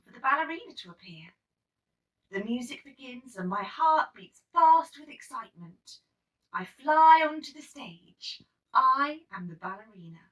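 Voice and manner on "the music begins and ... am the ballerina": rising excitement. A narrator's reading. Narration builds.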